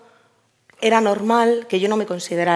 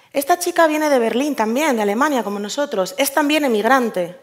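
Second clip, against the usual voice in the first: higher-pitched, lilting quote of the man; retold eager announcement; 5 semitones higher than usual. Man presenting the newcomer to his wife, eager announcement. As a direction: announce it keenly, pitch lifted throughout.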